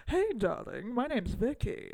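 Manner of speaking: a hint of old-Hollywood starlet, imitated; sixties starlet. Podcaster imitating an actress's character greeting someone, light starlet voice. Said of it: "talking like nineteen sixties sort of starlet".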